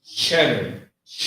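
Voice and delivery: "Cheddar" with a strong CH, then "Ch" alone; emphasis on CH. Shown as a demonstration. Teacher drilling student, "Cheddar" with strong CH. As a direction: hit the CH hard in "Cheddar". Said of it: "put the emphasis on it".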